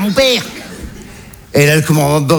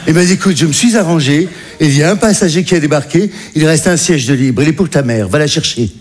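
captain's voice; 2 semitones lower than usual. Retold or imitated. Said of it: "commandant de bord".

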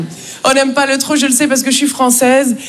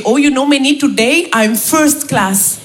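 blissful colleague; slower than usual. Retold or imitated. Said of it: "il me dit".

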